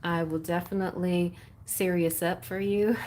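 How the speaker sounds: put-on Texas accent. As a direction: foolish April Fool's Texan voice. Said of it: "doing a Texas accent tonight".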